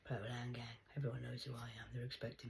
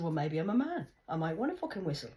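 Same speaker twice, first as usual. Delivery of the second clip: loud, higher, cutting; defiant retort; 7 semitones higher, 7 dB louder than usual. Retold or imitated. A speaker answering the Rasta man, loud and defiant. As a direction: fire it back at him. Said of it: "I said".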